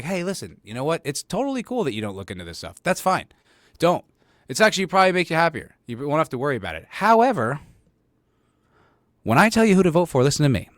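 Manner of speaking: builds to a loud, high punchline; mock reasonable lecture. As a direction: soothe her, then land it loudly. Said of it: "I'm like".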